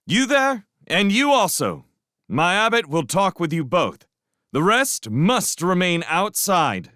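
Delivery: high, loud order from above; stern command. Acted. Matthias ordering the rat leaders from the parapet, loud command. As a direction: point and command them.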